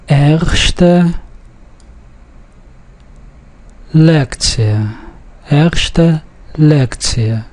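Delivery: Erste Lektie with a soft L in Lektie. Shown as a demonstration. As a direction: stress the first syllable of Erste, soft L in Lektie. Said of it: "the L is a soft L".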